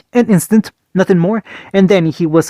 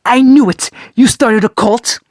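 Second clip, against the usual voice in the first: laughing gleeful shout; 5 semitones higher than usual. Acted. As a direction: crow it out, laughing. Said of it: "Kurama exploded into laughter".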